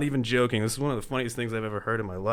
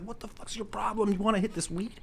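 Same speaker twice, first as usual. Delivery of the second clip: stoner voice; 11 semitones higher than usual. Retold or imitated. Hit stoner offering joint.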